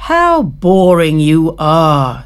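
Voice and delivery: slow, loud, mocking drawl; bored grasshopper. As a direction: tease them for being dull. Grasshopper voiced in story.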